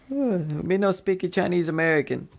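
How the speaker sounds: put-on joking pidgin-English accent; mock broken-English accent. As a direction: play dumb in a mock Chinese accent. Repeats the mock broken English joke.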